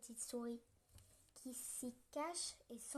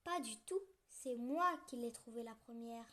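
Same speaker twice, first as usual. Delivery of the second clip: indignant. Acted. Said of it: "s'indigne la petite souris".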